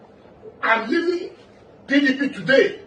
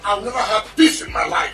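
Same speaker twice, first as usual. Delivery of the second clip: shouted oath. Real, not acted. Oath repeated, final time shouted.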